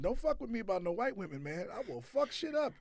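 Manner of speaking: put-on belligerent drunk. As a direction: play a belligerent drunk tearing up the bar. Hammed-up rampage threat.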